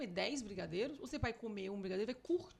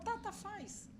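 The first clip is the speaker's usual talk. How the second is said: weary giving in; 11 semitones higher, much slower than usual. Retold or imitated. Tired parent finally giving in.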